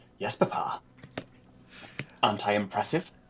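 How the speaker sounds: puffed-up, standing-tall, self-proud delivery. Kinetica, standing a little taller while being inspected, answers papa: proud. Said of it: "very proudly".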